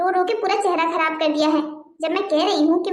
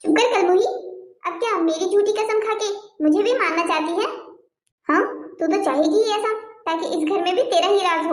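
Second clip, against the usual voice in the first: sharp, raised scolding of the niece; angry scolding; 2 semitones higher than usual. Acted. Aunt scolding niece in quarrel. (गुस्से में डाँटती चाची)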